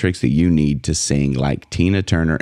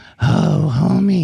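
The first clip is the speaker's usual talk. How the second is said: breathy cartoon voice, much higher; 10 semitones higher than usual. Showing a voice that is too breathy, the speaker does the Marge Simpson voice. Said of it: "that Marge Simpson voice is a little bit too".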